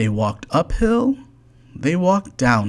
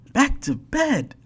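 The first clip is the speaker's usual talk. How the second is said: storybook yell. A narrator's reading. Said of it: "yelled Fred".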